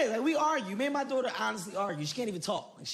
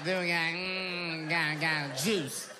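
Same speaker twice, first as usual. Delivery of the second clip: put-on toddler babble. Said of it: "She was like".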